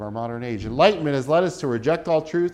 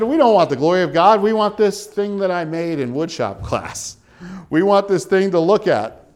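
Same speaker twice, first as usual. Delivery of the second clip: put-on louder, higher childish boast; mocking idol-maker; 5 semitones higher, 4 dB louder than usual. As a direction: brag like a proud kid about his woodshop idol. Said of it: "We said".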